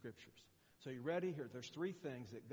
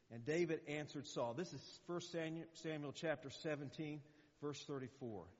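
ordinary delivery

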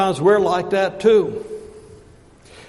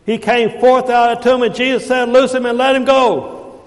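raised, insistent, rolling sermon cadence; forceful preaching; 6 semitones higher, 5 dB louder than usual. Acted. Preacher telling people what ties them up, forceful preaching. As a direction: pile up each phrase, preaching hard.

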